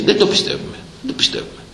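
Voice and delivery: whispered imitation of doubters; mock whisper. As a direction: breathe it like a disbelieving onlooker. Mimics people doubting his age. (ψιθυριστή μίμηση δυσπιστίας)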